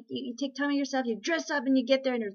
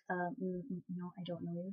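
much softer, low mock snub; hesitant, lower cold-shoulder voice; dismissive brush-off; 5 semitones lower, 14 dB quieter than usual. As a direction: mumble it like you're avoiding them. Friends brushing off the recruiter.

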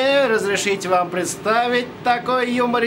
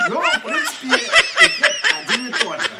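high squeaky laughter through words; laughing; 11 semitones higher than usual. Real, not acted. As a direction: talk while giggling high. Laughs while showing tool. (сквозь смех)

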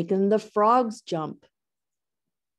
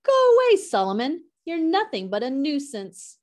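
singsong; 7 semitones higher than usual. A narrator's reading. Dragonflies shooing Solomon away in a high singsong. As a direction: sing out "Go away" high, then scold lightly. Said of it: "But the dragonflies sing".

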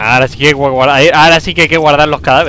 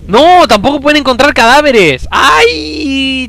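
panicked shout; 11 semitones higher, 3 dB louder, much slower than usual. Real, not acted. Frustrated panic at game rule.

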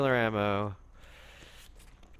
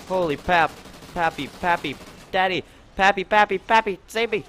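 climbing higher and louder, pleading; high panicked plea; 8 semitones higher, 5 dB louder than usual. Real, not acted. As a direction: squeal for rescue, rising higher. Begging in game for rescue.

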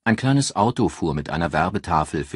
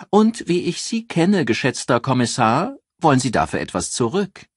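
lively newspaper editor; 8 semitones higher, 5 dB louder than usual. A narrator's reading. Eccentric editor Joyce greets the detective on the phone, high and gushing. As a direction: play her as a gushing, theatrical editor thrilled to hear from him.

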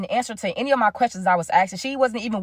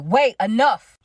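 mildly raised, abrupt interjection; retold cut-off; 4 dB louder, much slower than usual. Girlfriend cutting off the speaker mid-sentence, mildly raised voice. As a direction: imitate someone cutting in, a little louder. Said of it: "cut me off and was like".

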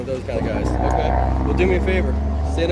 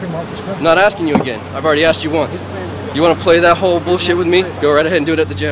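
angry; 2 semitones higher than usual. Real, not acted. Officer scolding arrested man.

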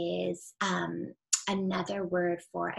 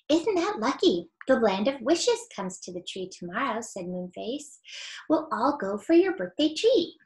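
story reading. A narrator's reading. Reader telling children a chapter, lively storybook voice. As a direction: read aloud with lots of expression for children.

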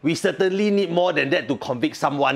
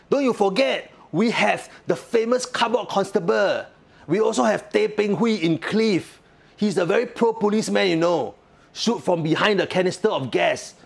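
sarcastic singlish; 4 semitones higher than usual. Real, not acted. Sarcastic Singlish rant on police.

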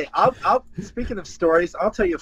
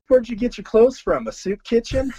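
Cornette voice; 7 semitones higher than usual. Retold or imitated. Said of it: "He looked at me and goes".

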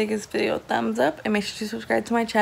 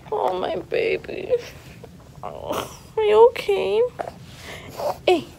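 cooing concern; 9 semitones higher, 4 dB quieter than usual. Real, not acted. Parent checking on a raspy baby, high cooing.

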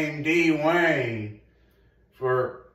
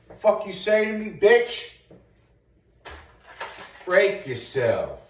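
mock tough-guy snap; 6 semitones higher, 4 dB louder than usual. Mock confrontation while gaming.

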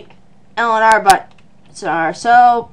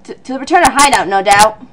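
bad Australian accent; 3 semitones lower, faster than usual. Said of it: "a really bad Australian accent".

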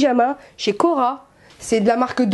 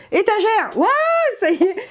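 higher, triumphant burst as the word comes back; excited relief; 9 semitones higher than usual. Real, not acted. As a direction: exclaim it like a sudden find. Finally finds the forgotten word. (exclamation triomphante du mot retrouvé)

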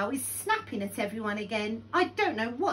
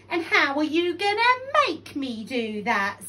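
loud, high mocking question; taunting challenge; 6 semitones higher, 8 dB louder than usual. A narrator's reading. Crocodile daring Lion to make him, loud and taunting.

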